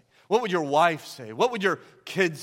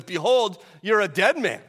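a hint of a mob boss, louder and punchy; mob boss threat; 5 dB louder than usual. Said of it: "like a mob boss".

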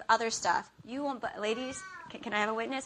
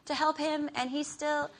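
mock exasperated wife, voice rising higher; exasperated rant; 5 semitones higher than usual. Wife fuming over the laundry basket, exasperated. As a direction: huff it out, fed up. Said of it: "Or I can be like".

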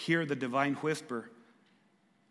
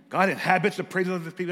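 louder, faster pious declaration; hammed-up pious; 2 semitones higher, 5 dB louder, faster than usual. Pastor mocking his own religious excuse, pious declaration. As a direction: proclaim it like a churchy excuse. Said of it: "Get all religious".

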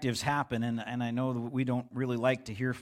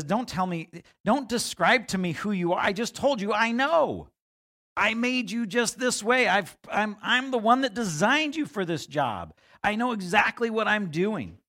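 voice of God; 7 semitones higher than usual. Acted. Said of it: "The Lord speaks directly into that and says".

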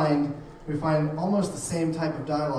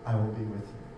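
reading God gently; 5 semitones lower, 5 dB quieter than usual. Retold or imitated. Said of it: "And God said".

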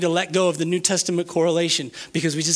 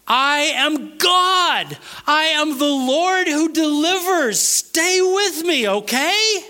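high, very slow, emphatic declaration; commanding preaching; 9 semitones higher, 4 dB louder, much slower than usual. Acted. Preacher voices God telling Israel to stop complaining, commanding. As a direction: command them, stretching each weighty word.

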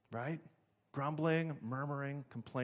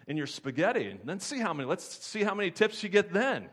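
mock quarrel; 5 semitones higher, 3 dB louder than usual. Waitresses fighting over hamburger.

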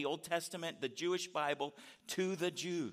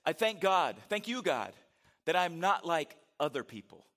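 smug Pharisee prayer; 6 dB louder than usual. Acted. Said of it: "And he says".

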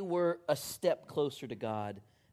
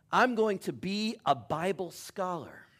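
proud son; 5 semitones higher, 5 dB louder than usual. Retold or imitated. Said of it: "And the son says".

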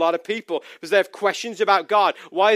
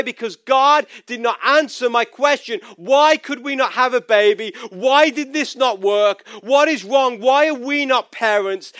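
retold anger at God, pitched up; impassioned, higher-pitched retelling of angry questions; angry questioning; 4 semitones higher, 3 dB louder than usual. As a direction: demand answers from God, voice raised in pitch. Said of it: "I was so angry with God".

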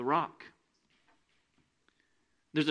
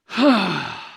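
exasperated sigh; 6 semitones higher, 8 dB louder than usual. Acted. Jesus exasperated with disciples.

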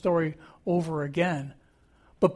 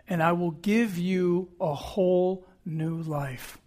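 Jesus voice; slower than usual. Retold or imitated. Jesus voiced in sermon quote.

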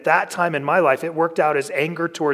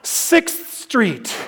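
laughing answer; 7 semitones higher than usual. Retold or imitated. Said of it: "And I'm like".

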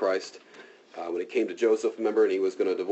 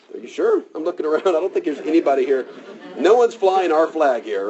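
incredulous servant; 6 semitones higher, 5 dB louder than usual. Retold or imitated. Servant questions Elisha about the army, incredulous and high. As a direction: play the servant's doubtful "are you sure?".

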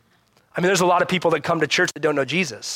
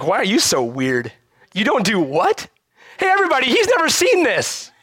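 mocking taunt; 5 semitones higher than usual. Mocking worldly people teasing believers.

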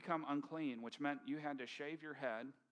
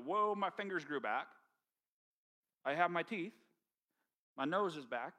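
excited, louder wonder; healed man amazed his fingers grew back; 3 semitones higher, 5 dB louder than usual. Retold or imitated. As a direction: marvel at getting your body back. Healed leper amazed at his body.

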